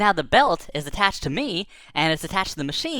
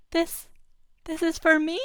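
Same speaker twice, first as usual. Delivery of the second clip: much higher, hushed with wonder; awed kid; 13 semitones higher than usual. Retold or imitated. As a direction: gasp it out like a stunned child. Kid sees giant cotton candy.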